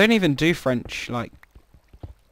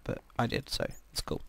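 soft whispered aside; 2 semitones lower, 14 dB quieter than usual. Real, not acted. Muttered aside to viewers.

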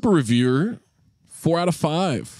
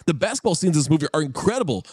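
lightly hyped bro voice, higher; bro reviewer voice; 5 semitones higher than usual. Pretend. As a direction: read it like a pumped bro. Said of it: "I'll do the voice".

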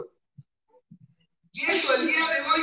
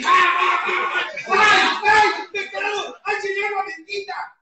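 high, loud mock shrieks of alarm; mock shocked cries; 7 semitones higher, 8 dB louder, slower than usual. Recalling group members, a loud mock shriek. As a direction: squeal ay ay like someone scandalized.

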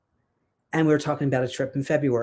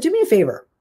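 suddenly high and loud; a bright rush of excitement; excited; 7 semitones higher, 4 dB louder, faster than usual. Retold or imitated. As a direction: burst out eagerly. Excited retelling.

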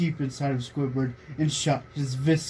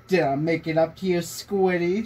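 mock sexy tone; 3 semitones higher than usual. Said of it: "asked in a sexy tone".

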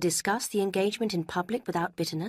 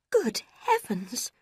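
slow, breathy gasp of dismay, pitched up; shocked cry; 6 semitones higher, 4 dB louder, much slower than usual. A narrator's reading. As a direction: gasp it out in horror. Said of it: "cried Marianne".

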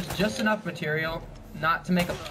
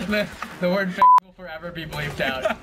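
laughing through the words; 3 semitones higher, 5 dB louder than usual. Real, not acted. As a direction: giggle while you say it. Laughing at bleep joke.

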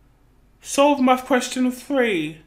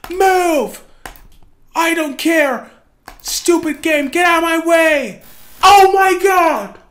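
frustrated shouting; 3 semitones higher, 5 dB louder than usual. Real, not acted. Frustrated pushing through game.

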